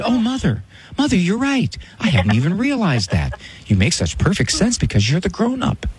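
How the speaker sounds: high, syrupy mock-agreeable daughter; mockingly sweet concession, as if it would ever happen; sarcastic daughter. Doctor mocking the daughter's imagined surrender, sarcastic sweetness. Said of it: "When's the last time she said".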